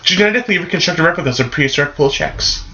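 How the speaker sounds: quoting a movie line. Retold or imitated. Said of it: "That was actually a line from this movie".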